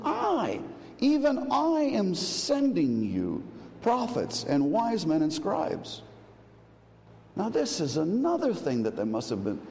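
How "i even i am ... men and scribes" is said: high, slow proclamation, pitched well up; solemn divine declaration, high and drawn out; emphatic quote of Jesus. Retold or imitated. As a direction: proclaim it slowly from on high, like a voice to persecutors. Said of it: "And he says to him".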